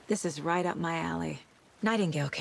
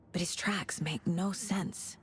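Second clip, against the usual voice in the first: slow, unvoiced musing; whispered inner thought; 6 dB quieter than usual. Detective studying clues, whispering to himself. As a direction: murmur it to yourself as you examine.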